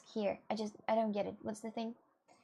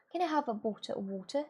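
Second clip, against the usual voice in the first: lightly imitated British accent. Streamer showing viewers how thick it gets, mock British accent. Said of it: "sometimes it's like".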